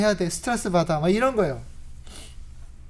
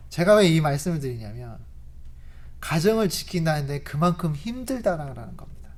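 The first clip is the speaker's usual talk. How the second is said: usual speaking voice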